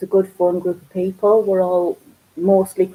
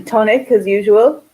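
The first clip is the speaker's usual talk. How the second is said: laughing; 3 semitones higher, 5 dB louder than usual. Real, not acted. Laughing while naming her drink.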